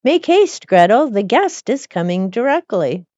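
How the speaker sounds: high, loud hurried call; urgent call. Acted. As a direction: shout up the stairs to hurry her. Master calls out urgently.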